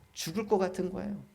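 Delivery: ordinary delivery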